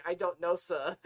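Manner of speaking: laughing mock-Harry line. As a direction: giggle out a clueless answer. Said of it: "Harry will say".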